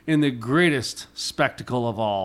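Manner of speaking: booming circus announcer intro; ringmaster. Pretend. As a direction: announce it like a big top ringmaster.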